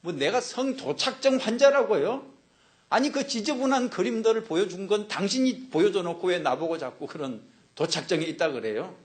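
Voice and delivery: high, loud outburst that eases toward the end; angry protest. Acted. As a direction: act out an offended man firing back. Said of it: "이 남자가 막 화를 내면서".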